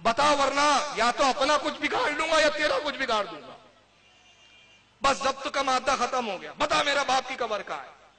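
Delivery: retold angry outburst at mother; angry demand. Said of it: "غصے میں آیا".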